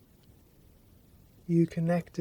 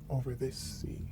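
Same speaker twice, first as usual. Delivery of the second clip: whisper; 2 semitones lower, 6 dB quieter, faster than usual. Acted. Sea voice speaking over music.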